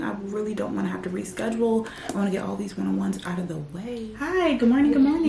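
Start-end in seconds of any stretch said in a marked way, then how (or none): 4.2-5.3 lifted, sing-song good morning; perky hello to the boss; cheerful high greeting; bright greeting. Real, not acted. Greeting on video call.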